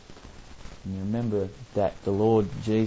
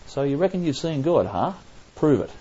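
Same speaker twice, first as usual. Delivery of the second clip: higher, pushy doubting dare; mock sceptical challenge; 6 semitones higher than usual. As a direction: challenge him to prove it. Sceptic challenges Moses for proof.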